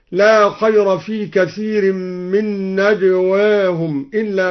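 bend نجواهم slightly and الناس fully toward e; نجواهم with taqlil, الناس with imala; light imala. Shown as a demonstration. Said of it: "قلل الدوري نجواهم وأمال الناس".

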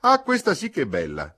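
high, loud cry of dismay; indignant shriek. A narrator's reading. Mercedes scorning advice to leave the tent, indignant shriek. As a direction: shriek in affronted disbelief. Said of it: "strillò Mercedes".

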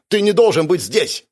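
high, loud frightened yell; shouting. Acted. Juwon yelling at the ghost in the mirror. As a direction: cry out to drive the ghost away.

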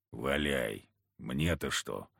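low, gruff backwoods hunter. Acted. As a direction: speak it low and heavy like a surly hunter. Kharisim indifferent.

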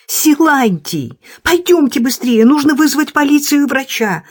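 high, urgent pleading voice; hurrying urgently. A narrator's reading. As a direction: rush him, breathless and anxious. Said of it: "торопила его Лиля".

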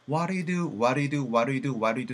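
"What do you do" slurred to waɾe du; fast reduced speech. Shown as a demonstration. Teacher demonstrating fast native reduction. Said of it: "What do you do가 어떻게 변한다?".

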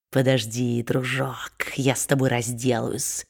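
whispered promise of a beating; menacing whisper. A narrator's reading. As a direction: hiss the threat under the breath. Quilp threatens the boy.

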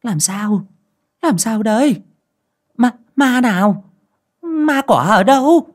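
high, rising alarmed questions; startled asking. A narrator's reading. Old mother startled, asking her daughter-in-law what ghost. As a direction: ask in a jolt of alarm. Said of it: "giật mình ... mà hỏi".

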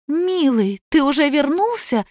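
высокий заискивающий голосок; лебезит перед мужем, сладко; fawning. A narrator's reading. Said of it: "залебезила жена". (заискивающе, выше обычного)

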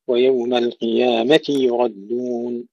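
slow recited ويوم القيامة يردون, clear "ti yu"; kasra then damma. Shown as a demonstration. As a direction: draw it out, separating ti from yu in القيامة يردون. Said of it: "كسر التاء ثم ضم الياء". (ويوم القيامة يردون بتلاوة متأنية)

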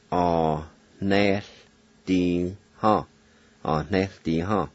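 Ah, ne, d, ha repeated, then blended; Cherokee pronunciation. Shown as a demonstration. Teacher repeating the word for learners to copy. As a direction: repeat Ah, ne, d, ha, then run it together. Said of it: "pronounce the L sound like this".

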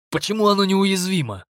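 high astonished question. A narrator's reading. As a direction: ask it in disbelief. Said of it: "поразился Стефан".

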